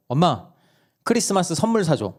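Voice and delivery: 높고 또렷한 어린아이 말투로; 선물 사 달라고 조르는 막내. Retold or imitated. 막내가 엄마에게 조름. (막내가 엄마에게 조르는 목소리)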